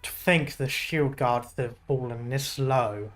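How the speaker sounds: low, slow masked soldier voice; a cold threat, slow and heavy; menacing guard voice. Acted. Villain guard reads, low and slow.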